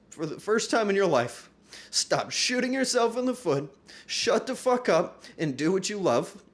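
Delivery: loud, high pep-talk to myself; reading my own note. Retold or imitated. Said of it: "I wrote that to me".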